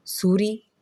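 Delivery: mother calling out as she rushes in; alarmed call. A narrator's reading. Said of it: "ಗಾಬರಿಯಲ್ಲಿ ಓಡ್ಬರ್ತಾ". (ಗಾಬರಿಯಲ್ಲಿ ಓಡಿ ಬರುತ್ತಾ ಕರೆಯುವ ತಾಯಿ)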